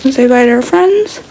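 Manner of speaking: talking through a toothbrush; while brushing teeth. Real, not acted. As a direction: mouth full of toothpaste. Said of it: "I'm brushing my teeth".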